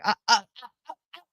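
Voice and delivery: short, choppy fake sobs; mocking sob noises; mock hysterical sobs. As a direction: imitate someone's overdone crying in little gasps. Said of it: "Hysterical crying".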